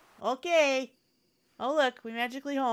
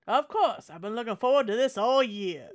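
southern governor; 4 dB louder than usual. Acted. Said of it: "I just picture the governor being southern".

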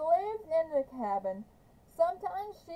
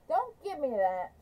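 a touch of a shout, louder and pushy; mild mock shout; 2 semitones higher, 3 dB louder than usual. Trout at gunpoint, dismissing Kate with a mild shout. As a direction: snap it back at her, half shouting. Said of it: "shouted Trout".

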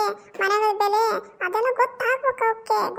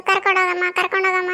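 mocking child whine; 2 semitones lower, 3 dB louder than usual. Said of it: "ಅಂತ ನೀವು ಸಾವಿರ ಸರಿ ಹೇಳಿದ್ರುನು".

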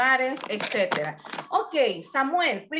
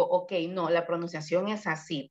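mock teacher correcting; 5 semitones lower, 3 dB quieter than usual. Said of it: "ahí vengo yo y le digo".

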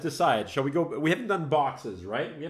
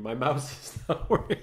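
laughing. Real, not acted. Laughing at his broken mouse.

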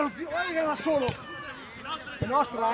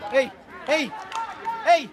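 short, loud calls for attention; calling out; 5 dB louder, faster than usual. Real, not acted. Player calls to teammates during the match, calling out. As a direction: call sharply across the pitch.

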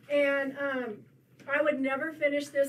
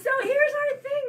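laughing; 13 semitones higher, 9 dB louder than usual. Real, not acted. Laughter after thirty minutes remark.

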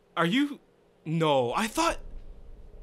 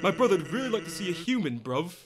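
a hint of London accent; 3 semitones lower than usual. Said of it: "what voice should I give Sans".

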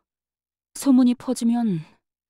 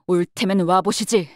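daring challenge, a little louder; daring taunt; 4 dB louder than usual. Acted. Bodyguard with a greatsword warning off attackers, daring taunt. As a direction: throw down a mock challenge. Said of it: "같은 느낌으로".

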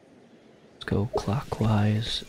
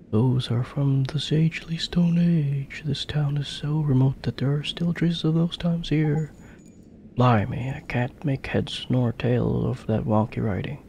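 lightly voiced cheeky ghost; 3 semitones higher, 3 dB louder than usual. Voices ghost sidekick reading dialogue.

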